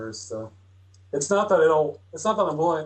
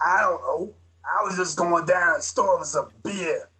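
Vortigaunt voice; 2 semitones higher than usual. Acted. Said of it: "I'll do the Vortigaunt voice".

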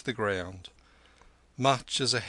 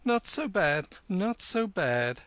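higher-pitched, unruffled reply; calm approval; 9 semitones higher, 4 dB louder than usual. A narrator's reading. Kim answering the hillman's second insult, calm. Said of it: "said Kim with calm".

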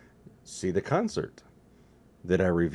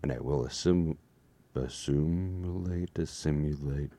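Borg voice; 3 semitones lower than usual. Acted. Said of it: "I am part Borg".

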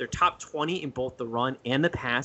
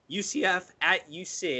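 voice cracking; 4 semitones higher, slower than usual. Real, not acted. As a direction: voice cracks mid-phrase. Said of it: "as my voice just cracked there".

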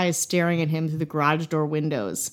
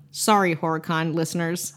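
normal talking voice

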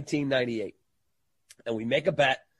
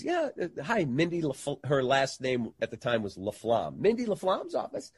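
imitating a secretary; 3 dB quieter than usual.

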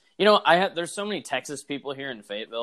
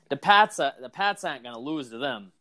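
put-on Boston accent; 5 dB louder than usual. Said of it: "or however the Boston accent is".

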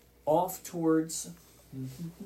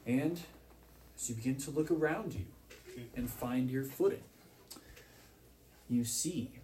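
scene setting; 4 dB quieter than usual. Acted. Game master setting the scene for players, hushed narration. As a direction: paint the strange new land softly.

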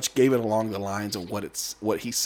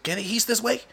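uncle explaining; 9 semitones higher than usual. Retold or imitated. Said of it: "He was like".

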